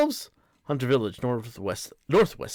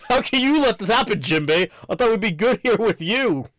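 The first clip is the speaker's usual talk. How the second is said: put-on high, whiny kid's complaint; high-pitched angry kid; upset kid yelling; 7 semitones higher, 4 dB louder than usual. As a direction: shout it up high like an upset child. Angry child character pleading.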